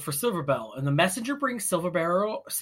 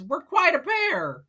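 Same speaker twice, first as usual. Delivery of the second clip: corny joke; 11 semitones higher, slower than usual. Retold or imitated. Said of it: "she makes the worst joke".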